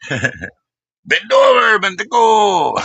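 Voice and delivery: high, slow, laughing call; giggly teasing shout. Real, not acted. Streamer teasing his friend through laughter, high giggly call.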